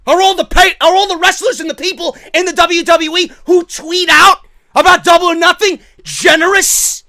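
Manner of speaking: loud, high-pitched indignation; heated rant. Real, not acted. Fan calling out double standards on competition, heated rant.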